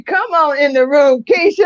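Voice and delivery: high, loud call of come on in the room; loud welcoming call to Keisha; excited church call. Retold or imitated. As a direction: call it out like a cheering congregation. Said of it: "I can just hear her saying that".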